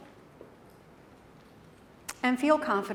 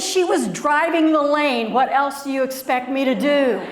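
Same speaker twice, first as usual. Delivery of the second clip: put-on defiant kid; 3 semitones higher, 4 dB louder than usual. Child defends herself to classmates.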